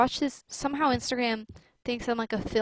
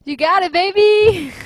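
laughing; 7 semitones higher, 12 dB louder, much slower than usual. Real, not acted. Laughing after friend's joke.

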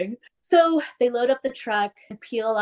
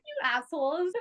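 squeaky laugh breaking the words; amused at the two friends; 12 semitones higher, 7 dB quieter than usual. Real, not acted. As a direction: giggle it out through laughter. Laughing at the boys.

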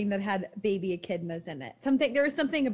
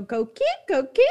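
coqui frog call; 2 semitones higher than usual. Retold or imitated. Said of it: "the way they chirp is they go".

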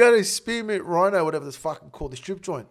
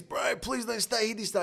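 higher, softer mock plea; imitated pleading; 4 semitones higher, 5 dB quieter than usual. Friend begging the fugitives not to stay, imitated pleading. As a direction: beg lightly, as the reluctant friend.

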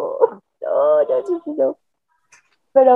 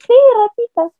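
mother's voice; 11 semitones higher, 6 dB louder than usual. Retold or imitated. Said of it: "y me dice".

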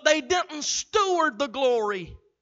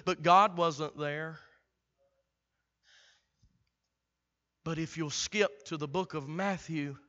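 hushed storytelling; 8 semitones lower, 11 dB quieter than usual. Acted. Preacher quietly painting the silent years, hushed. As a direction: draw them in with a hush.

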